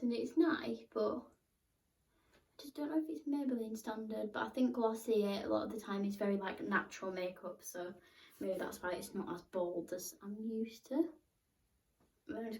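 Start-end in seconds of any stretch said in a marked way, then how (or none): 4.3-11.0 talking while doing mascara; applying mascara. Real, not acted. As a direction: mouth stretched for mascara. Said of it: "Apologies for my mascara face".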